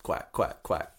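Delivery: whispered duck quacks; breathy quacking like a duck. Pretend. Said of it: "Whenever I quack".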